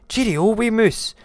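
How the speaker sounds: high, loud goodbye; high-pitched alarmed creature; hasty frightened farewell. Acted. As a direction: call it out as you flee. Snake flees in fright.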